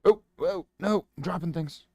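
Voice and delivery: high, loud real yelp; sudden surprised outcry; startled. Real, not acted. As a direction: caught off guard fumbling. Drops brush.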